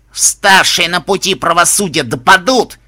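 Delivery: slow, loud, distorted rasping growl. A narrator's reading. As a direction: rasp it out, twisted and bleeding. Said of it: "искажённым голосом прохрипел".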